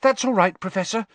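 high, breath squeezed out; Hermione gasping. Acted. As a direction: choke the words out. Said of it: "Hermione gasped".

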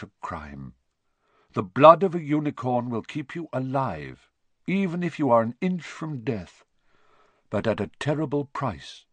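grave warning, mildly dramatic; a hint of a portentous centaur; lightly voiced solemn centaur. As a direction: deliver it as an ominous, measured pronouncement. Firenze warns of unicorn blood.

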